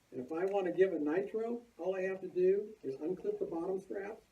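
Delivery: muffled, talking through a face mask. Real, not acted. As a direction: speak with a mask over the mouth. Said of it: "I'm talking through the mask".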